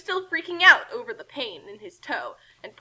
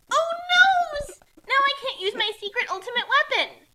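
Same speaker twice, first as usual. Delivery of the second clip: mock panic, higher and louder, laughing; hammed-up fake scream; 12 semitones higher, 7 dB louder than usual. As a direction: ham up the fake despair. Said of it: "Kasumi screamed uber loudly".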